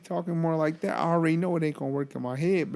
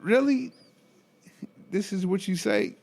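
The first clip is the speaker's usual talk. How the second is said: high, loud disbelief; can't believe what he heard; incredulous; 6 semitones higher, 3 dB louder than usual. Real, not acted. Disbelief at patient's remark.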